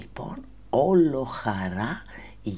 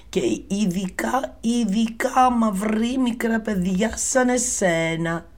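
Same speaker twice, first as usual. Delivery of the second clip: high, loud put-on voice, warning; a big woman hushing a warning; giant's wife; 10 semitones higher, 6 dB louder than usual. Giant's wife letting Jack in and warning him, high loud put-on voice. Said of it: "η γυναίκα του απάντησε".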